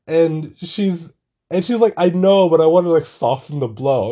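high and loud, laughter in every word; laughing. Real, not acted. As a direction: tell it while fighting off laughter. Still laughing, retelling the exchange.

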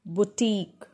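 "boutique" as boo-TEEK; model pronunciation. Shown as a demonstration. Teacher modelling the word for learners, boo-TEEK. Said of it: "This is pronounced as".

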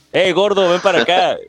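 calling from far away. Pretend. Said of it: "se escucha a lo lejos".

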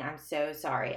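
a touch of retold sobbing; crying apology. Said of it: "starts crying and saying".

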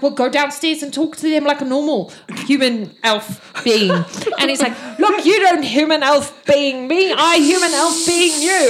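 bickering guards. Acted. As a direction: bicker back and forth.

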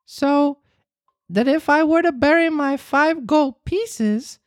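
high, eager puppet voice; high excited boy; growing wonder. Acted. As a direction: gasp it out in mounting wonder. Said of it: "cried Pinocchio with growing wonder".

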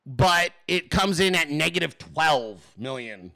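slow, deliberate restating of the figure; slow emphasis. Real, not acted. Host quizzes viewers on oil numbers, slow and deliberate. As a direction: lay out "negative twelve million" slowly.

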